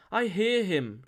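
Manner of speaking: high, loud cry of revelation; excited cry. A narrator's reading. Morgana springs up sensing the coming, high excited cry. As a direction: cry it out, pitch leaping up. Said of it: "she cried".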